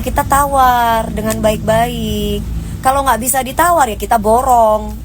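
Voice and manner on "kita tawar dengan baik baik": slow and deliberate. Shown as a demonstration. Advising calm haggling.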